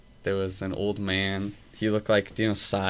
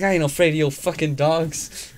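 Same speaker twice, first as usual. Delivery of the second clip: mock tough old man; 7 semitones higher, 7 dB louder than usual. Quoting ranting old man.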